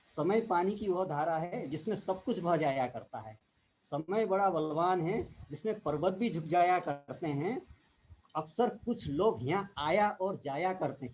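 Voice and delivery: measured declaimed verse, line by line; shayari recitation. Retold or imitated. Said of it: "एक शेर और याद आ गया मेरे को". (शेर सुनाने के अंदाज़ में)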